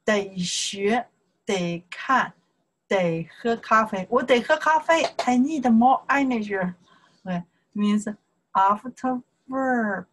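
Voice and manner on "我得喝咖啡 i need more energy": higher-pitched acted need for coffee; playful pleading. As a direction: act out a lively, urgent craving. Acts out needing coffee.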